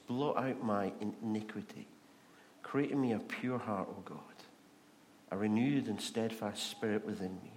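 low, subdued reading of a prayer; penitent prayer. Retold or imitated. David's response after the prophet accuses him, penitent.

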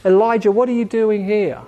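compassionate. Acted. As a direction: ask it with concern, not accusation. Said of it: "Let's hear compassion".

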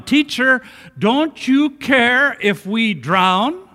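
high, drawn-out accusing question; rude, disrespectful. Acted. Disciples to the sleeping Jesus, rude and disrespectful. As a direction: demand it slowly, with a disrespectful edge. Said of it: "there's a note of rudeness and disrespect".

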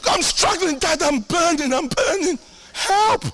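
high, crying cry for help; mock desperate plea. Preacher imitating his prayer to God, hammed-up desperation. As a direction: beg like a burning child. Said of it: "Yeah, I say".

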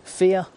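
fear said high and loud, alone after a long pause; a preacher's weighty fear; dramatic emphasis. Real, not acted. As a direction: land the word fear hard. Preacher stresses key word.

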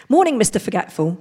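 loud cheery policeman greeting; London policeman. Acted. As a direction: call out like a friendly bobby. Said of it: "said the policeman".

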